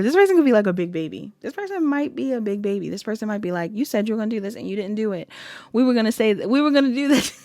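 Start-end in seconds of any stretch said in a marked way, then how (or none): 3.7-7.4 whining. Retold or imitated. Imitating the big baby partner complaining, mild whine. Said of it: "somebody that's whining".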